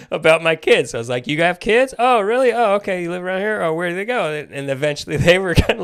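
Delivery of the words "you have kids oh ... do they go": higher, louder chatty questions; rapid-fire friendly questions, trying too hard; imitating overcompensated chattiness; overeager small talk. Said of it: "overcompensated and went right into facilitation mode".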